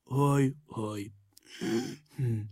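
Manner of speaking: sad sighing moans; a downcast little sigh and hum; sighing groans. A narrator's reading. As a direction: sigh out heavy-hearted. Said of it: "sóhajtott Gombóc Artúr".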